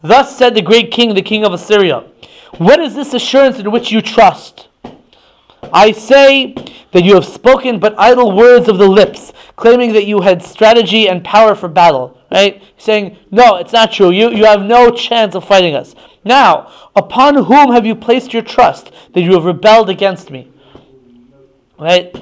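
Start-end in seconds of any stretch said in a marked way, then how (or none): 0.0-12.2 measured, emphatic recital of a royal message; declaimed challenge; envoy's proclamation. Acted. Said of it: "Rav Shakeh comes and he says". 13.3-20.5 mildly taunting challenge; emphatic, lightly acted taunt. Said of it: "insult the Jewish people and taunt them".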